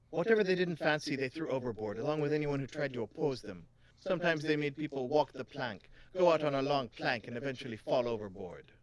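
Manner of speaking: lightly voiced, lilting coin expert; a hint of island accent; accented shopkeeper. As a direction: explain it with a put-on lilt. Continues Miss Sadi's accented voice.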